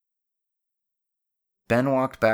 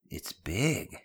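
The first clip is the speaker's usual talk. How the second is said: understated, plain observation; matter-of-fact. Acted. Benny sizes up the gangway, matter-of-factly. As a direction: state it as a simple fact. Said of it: "matter-of-factly".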